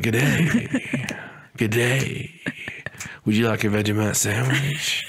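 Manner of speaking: mock Australian hawk greeting; lightly put-on Australian accent, friendly. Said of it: "They're like".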